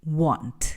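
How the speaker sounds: want said slowly with a rounded "wont" vowel; model word. Shown as a demonstration. Teacher asks students to repeat, slow clear want.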